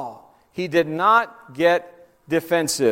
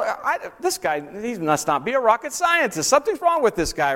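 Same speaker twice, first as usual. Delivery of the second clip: normal talking voice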